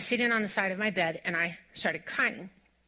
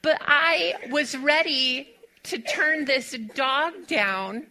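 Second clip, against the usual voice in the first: higher, slow, words broken by laughter; sheepish laughter; laughing; 6 semitones higher, slower than usual. Real, not acted. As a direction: keep laughing at your own fear. Still laughing at herself.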